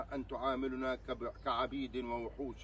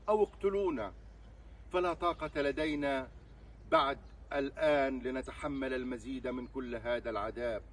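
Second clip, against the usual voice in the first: raised, louder pleading that eases toward the end; impassioned plea; 4 dB louder than usual. Real, not acted. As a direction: plead loudly, at the end of endurance. Open letter's final desperate plea.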